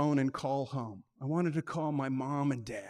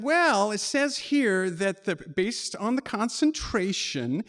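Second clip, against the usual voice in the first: operator reading aloud; 4 semitones higher, 3 dB louder than usual. Retold or imitated. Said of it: "And she said".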